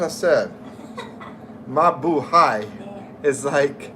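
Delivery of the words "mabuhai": Mabuhai said slowly, syllable by syllable; careful pronunciation. Shown as a demonstration. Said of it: "not very good at pronunciation".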